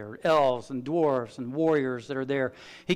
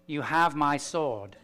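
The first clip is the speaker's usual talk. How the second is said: Aragorn's line; slower than usual. Retold or imitated. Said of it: "how he talks in the movie".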